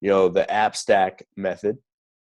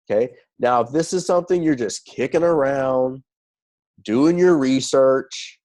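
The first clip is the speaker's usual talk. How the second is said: playing the salesman on a call, a touch more lively; in character. Shown as a demonstration. Coach demos a pitch to a prospect, in character. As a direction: give the sales pitch in character, leaning on key words. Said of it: "get in character here real quick".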